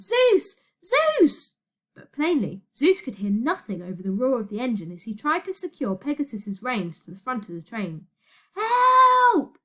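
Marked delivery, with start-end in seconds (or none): 0.0-1.5 high, loud shriek of a name; terrified scream. A narrator's reading. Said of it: "Virgo screamed". 8.5-9.6 high, very loud howl for help. A narrator's reading. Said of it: "Elliot howled".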